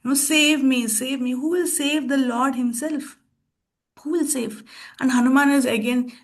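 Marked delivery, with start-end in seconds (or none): 0.0-4.6 higher, pleading cry for help; imitating Ram crying out to be saved; a half-acted plea, pitched up; mock loud crying. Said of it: "crying loudly".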